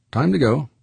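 gruff George voice. Acted. Gruff miner George speaks.

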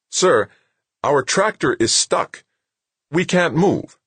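high-pitched, puzzled radio report; baffled subordinate, pitched well up; puzzled sergeant. Acted. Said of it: "sounded more puzzled than worried".

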